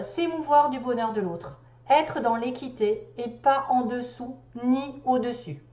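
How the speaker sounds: measured recital of a spiritual text; deliberate read-aloud delivery; reading a message aloud. Acted. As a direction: read it out phrase by phrase. Reads out the message.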